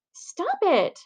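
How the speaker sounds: high squealing protest. Acted. Girl squealing at the boy with the frog, high squeal. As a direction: squeal it out in disgust. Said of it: "she squeals".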